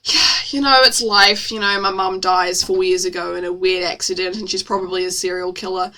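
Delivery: low, shrugging sarcastic deadpan; mock nonchalance. Reader mocking the redhead's shrug, sarcastically nonchalant. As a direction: play it off as no big deal. Mocks "that's life" shrug.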